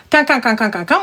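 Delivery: rapid repeated "quin" syllables; mocking quacking noise. Agent mocks the client's endless protests, quacking. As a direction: imitate a caller's yapping as nonsense. Imitating the caller's babble.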